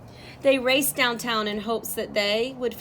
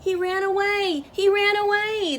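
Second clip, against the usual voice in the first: high panicked cry, louder the second time; bleating cry; 10 semitones higher, 5 dB louder than usual. Acted. Boy discovering his pet book gone, panicked high wail. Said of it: "the boy began to bleat".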